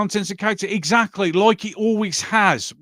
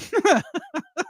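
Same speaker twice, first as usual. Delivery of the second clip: high-pitched chuckle; 10 semitones higher than usual. Real, not acted. Host amused by his own film idea, chuckling.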